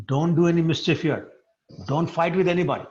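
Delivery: lightly acted firm admonition, pitch lifted; admonishing. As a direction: lay down the rule to a mischief-maker. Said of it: "reenact the pa-, the, that pastime".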